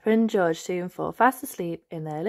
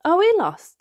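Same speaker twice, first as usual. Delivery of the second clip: put-on high, louder worried little girl; higher, louder child question; Peppa voice; 12 semitones higher, 8 dB louder than usual. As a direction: ask it as an anxious small piglet. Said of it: "asks Peppa".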